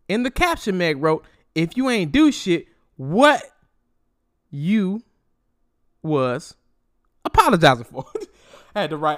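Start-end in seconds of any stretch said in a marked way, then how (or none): 1.5-8.0 each word of "what you was apologizing for" set apart by pauses, louder; spaced-out emphasis. Shown as a demonstration. Reading Meg's caption exactly as she typed it, word by word. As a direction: read it word by word, punching each. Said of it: "read that the same way that she wrote it".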